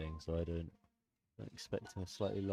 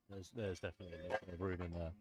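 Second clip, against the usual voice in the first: quiet aside; 7 dB quieter, faster than usual. Real, not acted. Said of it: "I just said that away from the mic".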